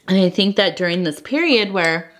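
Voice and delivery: talking between sips of tea; while sipping a drink. Real, not acted. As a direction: speak right after a sip. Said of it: "I'm sorry, I'm drinking some tea".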